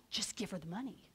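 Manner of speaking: soft, hushed thought to herself; quiet inner voice. Retold or imitated. Deciding to give the money, a hushed inner voice. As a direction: let the thought drop low and private.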